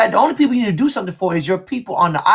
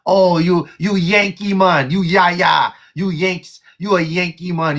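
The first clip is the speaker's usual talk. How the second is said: mock Jamaican accent; 4 semitones lower, slower than usual. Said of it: "make these slick remarks".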